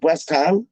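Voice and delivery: "West Ham" with "West" hurried into "Ham"; rushing the West. Shown as a demonstration. Fan objecting to how people say it, rushed pronunciation. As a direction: show "West Ham" wrongly run together. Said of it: "rushing the West".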